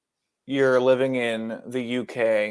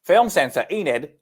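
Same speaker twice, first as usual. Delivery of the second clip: shaky-skilled British accent, pitched up and louder; 3 semitones higher, 4 dB louder than usual. Shown as a demonstration. Co-host retrying the back-of-the-box blurb, bad British accent. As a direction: have another go at a British accent. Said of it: "what can I do in a goddamn accent".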